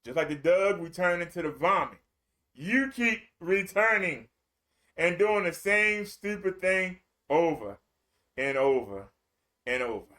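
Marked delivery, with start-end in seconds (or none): 2.5-10.1 slow fading refrain. Acted. Preacher slowing down on the refrain, fading low. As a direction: draw it out slowly and let it sink.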